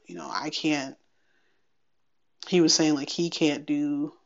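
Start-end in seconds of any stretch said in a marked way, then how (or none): 0.0-1.0 whispered trail-off. Retold or imitated. Doctor trailing off quietly.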